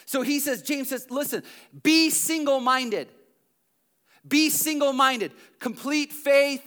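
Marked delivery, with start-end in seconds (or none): 1.1-6.6 loud, fervent exhortation; preaching at full force. Acted. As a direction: preach it out with rising fervour. Preacher voicing James's exhortation.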